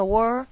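"wor" alone, firmly sounded; first syllable isolated. Shown as a demonstration. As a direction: say only the "wor" half of "world". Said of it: "听到一个wor".

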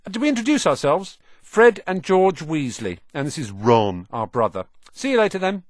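high, bright greeting; cheerful twin. A narrator's reading. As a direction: greet him like a cheeky older brother. Twin introduces the brothers.

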